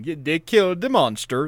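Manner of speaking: put-on Italian accent slipping into Swedish; botched Italian accent. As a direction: attempt Italian, land on mock Swedish. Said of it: "That was Swedish".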